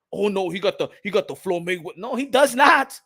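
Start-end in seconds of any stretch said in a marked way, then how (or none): 2.0-3.0 laughing no. Real, not acted. Laughing denial of Floyd comparison.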